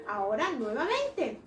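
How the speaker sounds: normal talking voice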